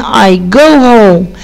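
"I go home" very slowly, each word apart; slow model answer. Shown as a demonstration. Teacher giving pupils the answer, very slow. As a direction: stretch "I go home" out for the kids. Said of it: "يعني I إيه؟".

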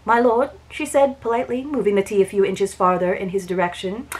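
even, unhurried reading of a romance novel; audiobook-style read-aloud of a Regency romance; story narration. A narrator's reading.

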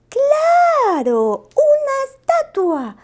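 grito muy agudo y fuerte de idea repentina; sobresalto. Acted. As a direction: salta con la ocurrencia. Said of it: "se sobresaltó Lupo". (Lupo se sobresalta con la idea, gritando agudo)

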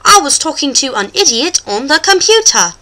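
example sentence with "idiot" and "computer" in mock British; British demo. Shown as a demonstration. Host puts both words in a sentence, British demo. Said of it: "put them in a sentence for you".

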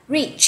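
"reach" with a long ee and released ch; final ch sounded. Shown as a demonstration. Teacher models the word for learners, "reach" with clear final ch. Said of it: "Âm i và âm ch đuôi ha".

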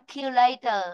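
"calculator" going down on "later"; falling after stress. Shown as a demonstration. Teacher shows the unstressed part, falling tone. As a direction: let the end of "calculator" drop. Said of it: "xuống dòng rồi".

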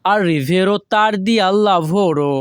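slow, careful Italian model reading; teacher pacing it out; slow model sentence. Shown as a demonstration. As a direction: say it slowly for learners to copy. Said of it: "আমাদেরকে বলতে হবে".

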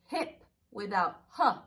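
slow, careful teacher read of "hip". Shown as a demonstration. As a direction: spell it out slowly for kids. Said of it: "take out the beginning sound".

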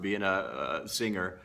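usual speaking voice

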